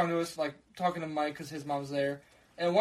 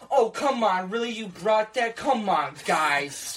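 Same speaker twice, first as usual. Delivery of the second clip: playing dumb; 4 semitones higher, 4 dB louder, slower than usual. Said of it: "she started playing dumb".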